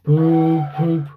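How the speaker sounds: slow, loud grumbling puffs. Acted. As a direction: huff it out like a grumpy engine. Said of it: "grumbled Gordon".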